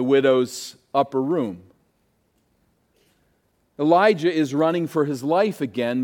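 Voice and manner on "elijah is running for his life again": again leaned on at the end; stress on again. Shown as a demonstration. Preacher to congregation, stress on again. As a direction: give the word again its weight. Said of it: "let me stress the word again".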